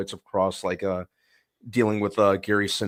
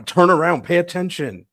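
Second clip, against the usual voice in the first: high mock yell at the TV; yelling at the screen; 10 semitones higher, 7 dB louder than usual. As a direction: shout a warning at the screen. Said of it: "yelling at the screen to".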